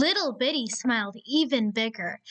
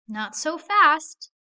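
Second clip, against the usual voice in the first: slow, loud, taunting block; slow bully threat; 5 semitones higher, 6 dB louder, slower than usual. Acted. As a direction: stretch it out, you own this path.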